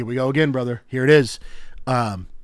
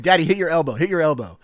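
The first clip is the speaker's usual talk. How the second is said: put-on high, louder child's voice pleading; eager little girl; 6 semitones higher, 6 dB louder, faster than usual. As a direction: chant it like a toddler begging for a game. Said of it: "she's been going".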